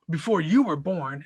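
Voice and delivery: mock condescending put-down. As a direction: talk down to him, lightly mimicked. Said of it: "in that tone".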